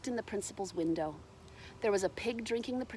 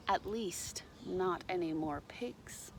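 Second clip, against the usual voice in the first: whisper; 3 semitones lower, 7 dB quieter, slower than usual. A narrator's reading. Closing aside to listeners.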